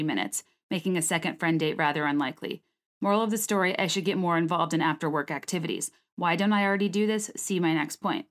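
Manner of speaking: steady, fluent read-aloud of a personal blog post; scripted personal essay read; reading own essay. Real, not acted. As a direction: read it straight off the page, running through long sentences.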